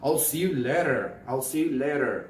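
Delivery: LATER as "lay-derr", with a clear final r. Shown as a demonstration. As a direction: say LATER American-style, d-like t and full r. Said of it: "E R sound will be pronounced very clearly".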